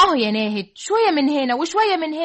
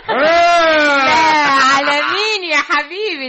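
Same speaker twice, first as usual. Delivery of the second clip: laughing; 5 dB louder than usual. Acted. Laughs at husband's threat.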